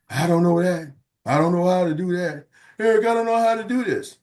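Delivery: lightly imitated helpless complaining; a hint of a stuck agent moaning for help; an agent moaning to Eric that he's stuck; mock helpless whining. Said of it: "business owners".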